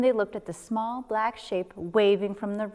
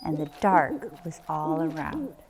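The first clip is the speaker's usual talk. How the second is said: usual speaking voice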